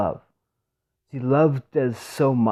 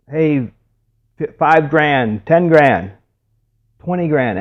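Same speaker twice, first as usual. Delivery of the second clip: raised, loud bid calling; auctioneer; 4 semitones higher, 7 dB louder, slower than usual. Retold or imitated. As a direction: call out the rising bids to a crowd. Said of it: "the auctioneer starts".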